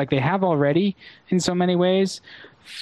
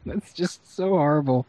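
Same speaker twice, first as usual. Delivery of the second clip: cracking up mid-line. Real, not acted. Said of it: "I'm laughing at my own joke".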